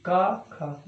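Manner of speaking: का, खा said softly and relaxed; easy unvoiced demo. Shown as a demonstration. Teacher showing unvoiced का, खा softly. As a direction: breathe out का, खा gently. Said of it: "बहुत आराम से बोलते हैं".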